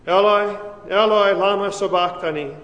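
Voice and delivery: Eloi, Eloi, cried out loud and high; an anguished loud cry to God. A narrator's reading. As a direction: call it out in anguish with full voice. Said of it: "Jesus cried with a loud voice".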